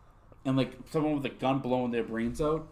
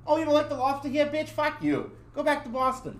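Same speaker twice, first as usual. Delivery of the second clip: high, fast, louder sneering tirade; mock rant; 13 semitones higher, 4 dB louder than usual. Waiter imagining telling off the Boston customer, sneering. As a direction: tear into her, much higher and faster.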